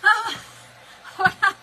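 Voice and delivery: high, loud despairing wail; panicked cry. Retold or imitated. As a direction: cry out like you can't breathe. Retold panic after ripping mask.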